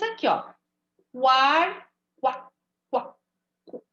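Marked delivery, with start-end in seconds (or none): 1.1-3.8 clipped Quar-, qua-, qua-, qu- to isolate the kw; sounding out syllables. Shown as a demonstration. Teacher isolating the sound for pupils, sounding it out. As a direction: break the word into pieces to show the U. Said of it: "Tá vendo como eu ouço o som do U?".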